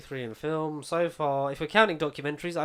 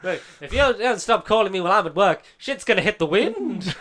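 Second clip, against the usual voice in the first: raised, fast mock scolding; mock telling off; 4 semitones higher, 5 dB louder than usual. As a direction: tell Mum off, half joking. Acting out reply to mum.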